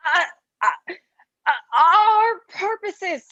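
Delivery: halting, tearful confession; fighting back tears as he speaks; choked sobbing. Acted. Traitor breaks down confessing.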